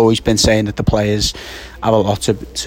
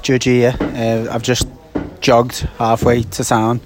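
slightly winded after jogging; out of breath; slower than usual. Real, not acted. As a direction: talk a bit breathless from the run. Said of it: "a little bit out of breath".

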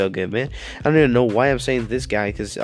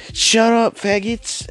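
sudden high shout; gamer girl yelling; 10 semitones higher, 3 dB louder, much slower than usual. Retold or imitated. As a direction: snap at the squad, loud and high. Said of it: "And she just goes".

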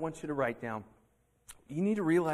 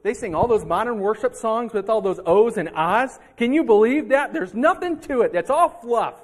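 scornful gossip; 5 semitones higher, 10 dB louder than usual. Acted. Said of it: "they're saying".

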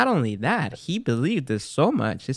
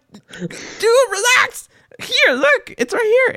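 flustered; 4 dB louder, slower than usual. Retold or imitated. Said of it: "I'm like".

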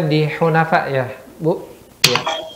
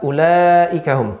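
Quran recitation; 4 semitones higher, slower than usual. Shown as a demonstration. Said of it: "Coba diulangi".

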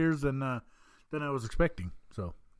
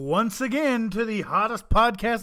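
ringmaster; 6 semitones higher than usual. Acted. Podcast opening, circus-style welcome.

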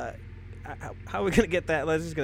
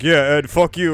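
put-on kid voice; 12 dB louder than usual. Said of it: "the voice you make for it".

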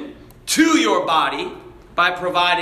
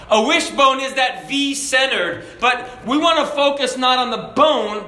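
higher-pitched emphatic sermon delivery; preaching; 4 semitones higher than usual. Real, not acted. Preacher turning the congregation from bone to wish, preaching. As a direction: drive the point home from the pulpit.

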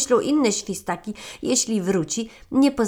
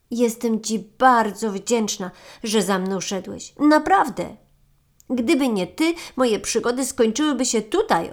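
grateful marmot; 2 semitones higher, 6 dB louder than usual. Acted. Marmot thanks friend, excited.

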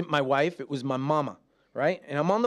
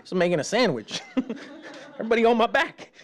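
grumpy mock rant; 7 semitones higher, faster than usual. Grumpy husband acting out.

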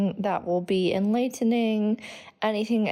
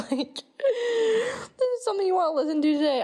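laughing whisper; 11 semitones higher than usual. Real, not acted. Laughing while explaining.

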